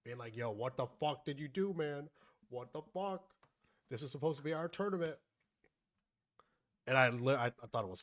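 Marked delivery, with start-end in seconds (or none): 0.4-5.2 higher-pitched mock indignation; imitated complaining. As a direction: play an aggrieved friend coming at you. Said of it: "goes from complaining to Hacks".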